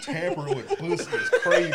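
high mock voice of a YouTube commenter. Host mimics a YouTube commenter's remark, high mock voice. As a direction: lift the pitch to mimic the commenter. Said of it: "They was like".

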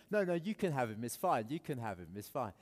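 put-on loud, dismissive playground kid. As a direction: brush him off like a team captain. Team leaders arguing over him.

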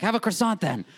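케이크를 권하는 할머니, 높고 큰 목소리; grandma voice. Retold or imitated. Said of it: "she's like".

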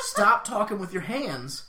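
slow laughing protest. Real, not acted. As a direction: giggle out the order. Laughing at her gestures.

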